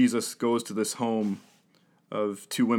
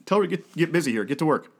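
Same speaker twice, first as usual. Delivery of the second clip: whiny, higher pleading complaint; mock-complaining sister; complaining Martha; 3 semitones higher than usual. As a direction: nag like an overworked sister. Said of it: "Martha starts complaining".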